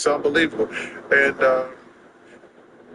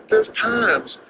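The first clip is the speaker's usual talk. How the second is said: higher-pitched imitation of concerned friends; friends' exasperated appeal; 6 semitones higher than usual. Friends confronting a gambler over not quitting, mock exasperation.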